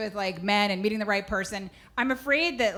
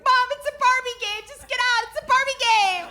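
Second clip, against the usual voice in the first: put-on high, whiny, unconvincing child voice; hammed-up guilty little girl; bad kid lie. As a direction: lie badly like a caught kid. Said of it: "I was an awful liar".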